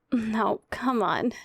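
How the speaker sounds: whispered gentle urging; hushed come-on; coaxing whisper. Acted. Coaxing partner to lie down.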